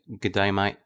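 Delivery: quick Australian greeting, lightly done; a half-hearted Australian "G'day, mate"; Aussie accent. Shown as a demonstration. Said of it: "I just know how to say".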